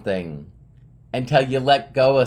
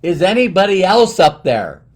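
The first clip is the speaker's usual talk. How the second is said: high, loud mock shout; comic raised-voice plea, pitched up; calling upward; 7 semitones higher, 8 dB louder than usual. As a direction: call out hopefully to someone overhead. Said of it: "The next voice was".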